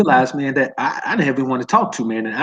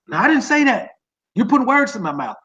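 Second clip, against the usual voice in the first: higher-pitched indignant denial, imitated; mock protest; 6 semitones higher than usual. Bros backtracking five minutes later, mock protest. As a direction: act out someone protesting they were misquoted. Acting out others denying what they said.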